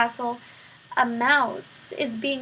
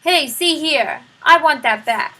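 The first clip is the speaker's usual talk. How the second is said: indignant shout; 2 semitones higher, 9 dB louder than usual. A narrator's reading. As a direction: bellow at the thieving rat. Prisoner protests cloth taken.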